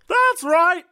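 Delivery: high, loud pundit exclamation; sportscaster voice. Pretend. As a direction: bark it like a TV host. Mock sportscaster.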